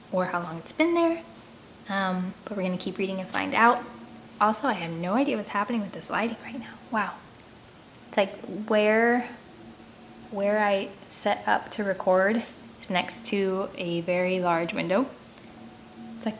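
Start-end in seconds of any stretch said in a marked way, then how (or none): 4.4-11.7 a fast, whispered aside. Real, not acted. The reader confiding to her viewers about the lighting, whispering. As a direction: lean in and whisper it off to the side.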